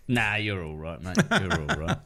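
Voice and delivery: grudging, offhand reassurance; backhanded praise. Retold or imitated. Kiwi bloke backhanding a comedian, grudging. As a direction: shrug it off half-hearted. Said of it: "the classic Kiwi backhanded".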